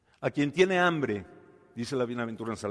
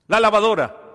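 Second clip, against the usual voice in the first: wailing complaint; 9 semitones higher, 12 dB louder than usual. Acted. Wife answers about the washer.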